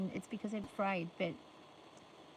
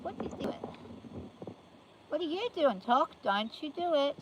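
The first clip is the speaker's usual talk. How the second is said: scolding the horse; 7 semitones higher than usual. Real, not acted. Owner scolding horse Tocky, sharp higher warning. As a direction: warn the naughty horse off.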